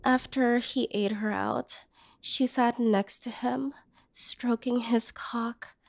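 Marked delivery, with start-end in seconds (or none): 4.1-5.8 slow, softer unvoiced whisper; ashamed whisper. Woman telling the brother what she saw through the window, whispered. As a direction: let it fall to a shamed whisper.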